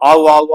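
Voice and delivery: "ஆவு" repeated so aa and u blend into au; vowels run together. Shown as a demonstration. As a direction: join the sounds of "ஆவு" as one glide. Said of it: "ஆவுனா அவு வந்துரும்".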